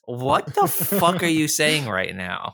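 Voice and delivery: slow baffled disbelief; incredulous. Real, not acted. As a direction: drag it out in disbelief. Baffled at the rating.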